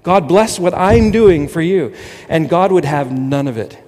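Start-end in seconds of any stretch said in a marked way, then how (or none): 0.0-1.9 mock earnest prayer. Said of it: "We often have prayer meetings like that".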